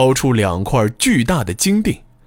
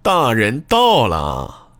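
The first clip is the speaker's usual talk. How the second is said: slow, sneering welcome; sarcastic greeting; slower than usual. Acted. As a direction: drawl it out sourly. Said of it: "一阵尖酸的问候".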